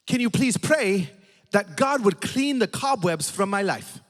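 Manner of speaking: put-on tearful old lady. Old lady begging the pastor to pray, slow mock-tearful plea. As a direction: draw out the plea, lightly imitating her. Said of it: "she is crying".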